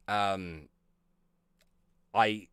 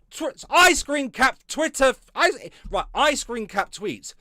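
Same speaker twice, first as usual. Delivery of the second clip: mock journalist; 11 semitones higher, 6 dB louder, slower than usual. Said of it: "It's like".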